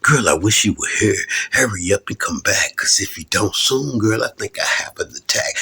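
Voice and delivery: lightly voiced rap in a famous rapper's style; light rap in that rapper's style; verse in that rapper's style. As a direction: rap it smooth like the rapper. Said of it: "I come in like the rapper".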